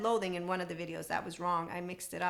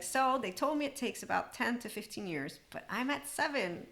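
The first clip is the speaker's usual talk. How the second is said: imitated excitement; 4 semitones higher than usual. Retelling a healing woman's progress, mildly excited. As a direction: relay her good news with a touch of excitement. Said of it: "She's so excited".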